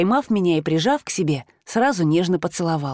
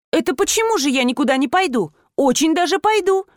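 indignant protest; 7 semitones higher than usual. A narrator's reading. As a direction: push back, outraged, climbing up. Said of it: "возмутилась я".

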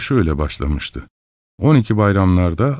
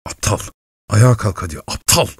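angry shout; 2 semitones higher than usual. A narrator's reading. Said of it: "diye bağırdı Katerina Lvovna".

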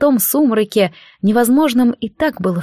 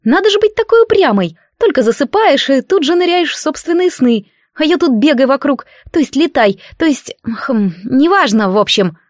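put-on higher, cheeky spirit voice, grumbling at a stubborn girl; impish unseen spirit; 5 semitones higher than usual. Spirit scolding a sleeping priestess, impish and grumbling. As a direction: tease her like a bored little godling.

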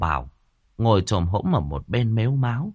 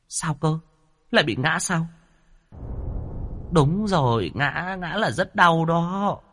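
high, alarmed, then slow gasp; frightened ghost, dragging the last words; startled fear; 9 semitones higher, slower than usual. A narrator's reading. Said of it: "sợ hết hồn". (hoảng hốt, kéo dài giọng)

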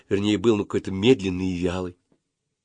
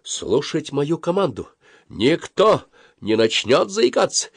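high, slow, commanding; stern command; 7 semitones higher, slower than usual. A narrator's reading. Boy leader gives his friends orders, stern. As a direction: issue orders like a drill officer. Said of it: "сурово сказал Колупаев".

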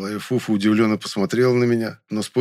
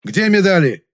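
loud bark, higher; 10 semitones higher, 5 dB louder than usual. Acted. Young man barks at the thieving maid, loud. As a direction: bark the question. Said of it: "рявкнул я".

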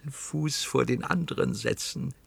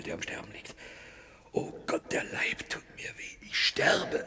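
breathy, gasping, fading voice; struggling for air in terror; panicked breathlessness. Acted. Gasping in panic to a partner at the threshold.

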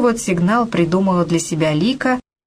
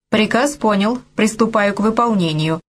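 lightly done robot voice; 3 semitones higher than usual. Acted. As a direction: report the order like a film robot. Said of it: "сказала Лика голосом робота из фильма".

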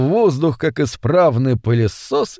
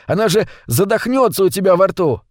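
higher-pitched urgent cry; mild shout; 6 semitones higher than usual. Acted. Митя fears the fish will suffocate, mild urgent shout. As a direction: protest urgently, voice raised in pitch. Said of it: "крикнул Митя".

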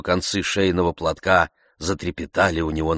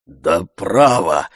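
slow, louder insistence; servant's fervent insistence; with great ardour; 7 dB louder, much slower than usual. A narrator's reading. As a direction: insist heartily. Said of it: "с большим жаром".

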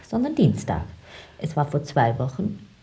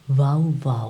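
dog bark; 2 semitones lower, 4 dB louder than usual. Shown as a demonstration. Teaching him to pass as a dog, a light mock bark.

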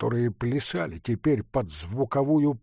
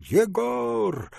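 calling out; 10 semitones higher than usual. A narrator's reading. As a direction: call high through the door. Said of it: "крикнул он в дверь". (зов в дверь, выше)

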